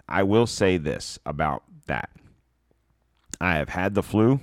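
normal talking voice

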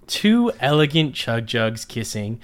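lightly theatrical story narrator. A narrator's reading. Podcast host reads listeners' nonsense story, narrator voice. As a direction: read nonsense as an earnest tale. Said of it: "get my narrator voice ready".

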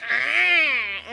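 goose squawk. Retold or imitated. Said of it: "And he goes".

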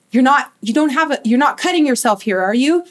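quick, halting nervous question; imitated nervous mom. Mom fears her daughter is cutting, imitated nervousness. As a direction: stumble hurriedly into a worried question. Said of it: "her mom very nervously said".

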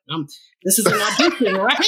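fast, laughing disbelief. Retold or imitated. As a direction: ask it through a laugh.

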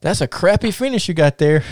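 high-pitched, lightly put-on Russian accent; Ivan Koloff. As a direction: question him in a mock Russian accent. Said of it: "he starts talking in his Russian, in his Russian, um, accent".

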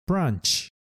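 teacher modelling "branch" high; model word. Shown as a demonstration. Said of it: "木の枝のことを英語で".

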